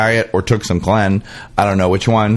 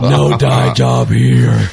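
slow mock boast; slower than usual. Voicing Lindsay.

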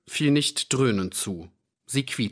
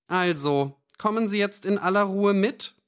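threatening; 11 semitones higher than usual. A narrator's reading. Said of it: "Die Worte klangen drohend".

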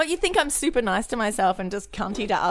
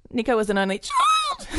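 laughing; 3 semitones higher than usual. Real, not acted. Laughing retake.

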